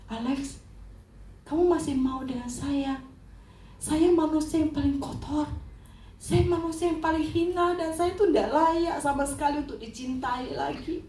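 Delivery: a touch of anguished self-reproach; pleading. Retold or imitated. Wife asks Alex whether he still accepts her, pleading.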